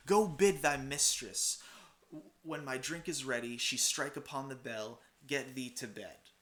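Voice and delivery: Macbeth. Acted. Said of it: "So Macbeth says".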